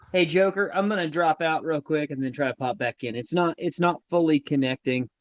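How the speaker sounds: thin headphone mic sound; speaking through a headset mic. Real, not acted. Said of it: "I'm talking through the headphone mic".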